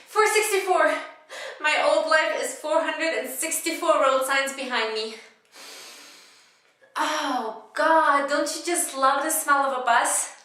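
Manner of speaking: loud, high bus passenger, playing to everyone; comedic monologue. Bus passenger counting road signs out loud, high comic monologue voice. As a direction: call it out high and loud, comic theater style. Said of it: "it was a comedic monologue".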